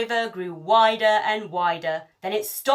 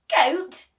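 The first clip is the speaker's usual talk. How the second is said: high, loud shocked goat; outraged disbelief; 9 semitones higher, 7 dB louder than usual. Acted. Pirate chief to the troll, shocked loud question. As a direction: bark it back in disbelief.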